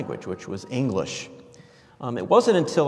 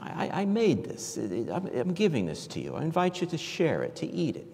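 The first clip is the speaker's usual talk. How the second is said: inviting offer; 5 semitones higher, 4 dB quieter than usual. Retold or imitated. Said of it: "Manja is like".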